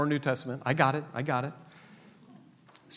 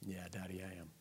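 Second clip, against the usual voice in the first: soft yes; 6 semitones lower, 12 dB quieter than usual. Acted. Childlike yes to God.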